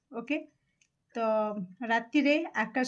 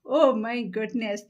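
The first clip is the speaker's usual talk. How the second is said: louder, slow amazed gasp of words; surprised exclamation; 7 dB louder than usual. Real, not acted. Tarot reader to viewers, amazed by the card she draws. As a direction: blurt it out as the card lands.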